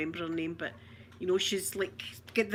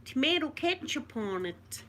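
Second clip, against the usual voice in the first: higher-pitched attempt at an American accent; 4 semitones higher than usual. Shown as a demonstration. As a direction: have a go at American. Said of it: "that's the best American accent".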